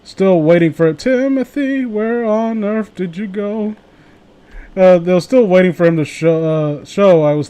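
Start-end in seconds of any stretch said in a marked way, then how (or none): 1.0-3.8 higher, drawn-out searching call; mock worried call, pitched up; calling out for someone. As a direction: call plaintively after a missing friend.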